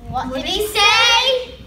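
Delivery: loud, slow, confused question; puzzled. Acted. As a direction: ask loudly and slowly, baffled. Guest confused by waiter.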